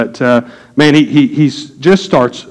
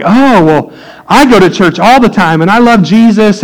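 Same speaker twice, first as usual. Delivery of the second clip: higher-pitched, over-eager churchgoer; lightly mock someone protesting their faith; imitating adamant believer; 5 semitones higher than usual. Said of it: "they are the most adamant, faithful Christian believer".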